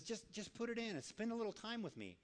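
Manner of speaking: soft, gentle coaxing; still small voice. Acted. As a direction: coax quietly, without pressure. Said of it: "that still small voice".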